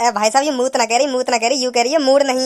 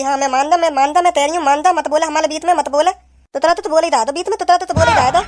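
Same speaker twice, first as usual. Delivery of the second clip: lightly voiced childish lisp; lisping girlfriend. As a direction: lisp every word like a sulky girlfriend. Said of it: "तोतली है मेरी girlfriend".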